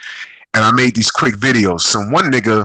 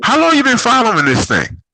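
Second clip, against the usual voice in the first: incredulous; 12 semitones higher than usual. Retold or imitated. Retold challenge to stranger.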